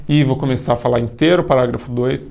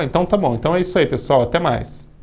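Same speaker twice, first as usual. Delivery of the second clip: video sign-off demo; 2 semitones higher than usual. Shown as a demonstration. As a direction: wrap up the video like a host. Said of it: "eu falo".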